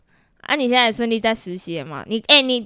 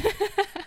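teary laugh; 8 semitones higher, 10 dB quieter than usual. Real, not acted. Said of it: "你有眼泪要流出来".

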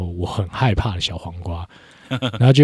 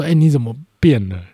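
mildly startled, higher-pitched question; imitated startled surprise; 5 semitones higher than usual. Girlfriend startled by his change, imitated surprise. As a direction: retell someone taken aback. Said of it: "她都会被我吓到说".

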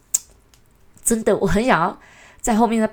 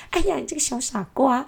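teasing lovey-dovey coo, pitched up; 8 semitones higher than usual. Retold or imitated. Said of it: "去敲那女生的头啊".

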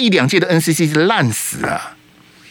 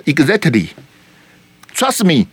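smug English aside; much slower than usual. Real, not acted. Host closes his point in English.

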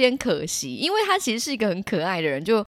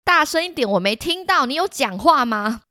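impatient teacher; 5 semitones higher than usual. Retold or imitated. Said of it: "老师说".

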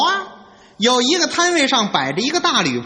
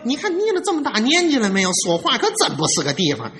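smoothing things over; 3 semitones lower, faster than usual. Acted. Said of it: "打算借这个机会给他打个圆场".

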